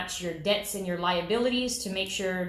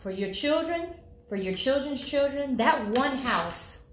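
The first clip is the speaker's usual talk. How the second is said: building phrases, lifted then settling; preaching; 5 semitones higher than usual. Real, not acted. Loan officer selling home ownership as family wealth, preaching. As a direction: preach it in measured, rising repetitions. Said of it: "Man, she's preaching this morning".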